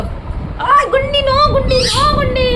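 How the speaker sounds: high mock scold stressing no; pet scolding. Real, not acted. Telling the bird no.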